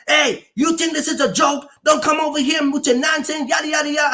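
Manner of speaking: retold scolding. Tire shop boss scolding a driver, mock indignant. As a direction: imitate a boss having a go.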